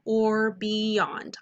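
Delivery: very slow call-and-repeat chant; slow vocab drill; slow choral model. Shown as a demonstration. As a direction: model "Trans means across or beyond" slowly for the class to echo. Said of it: "do that with me".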